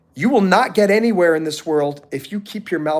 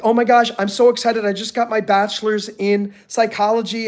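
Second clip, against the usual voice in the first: excited graduate; 4 semitones higher than usual. Retold or imitated. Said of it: "somebody who's really excited".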